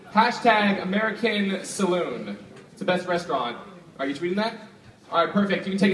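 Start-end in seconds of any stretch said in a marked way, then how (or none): 0.1-2.4 slow dictation. Real, not acted. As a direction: stretch out hashtag American Saloon slowly. Dictating the tweet to helper.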